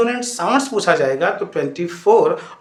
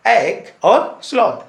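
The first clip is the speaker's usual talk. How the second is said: lazy drawl; 3 semitones higher, 5 dB louder, much slower than usual. Shown as a demonstration. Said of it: "lazy sounds के नाम से".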